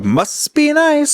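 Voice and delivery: high, long drawn-out jealous jab; envious sarcasm. Real, not acted. Job seeker hears of an easy offer, envious sarcasm. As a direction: stretch it out with sour envy.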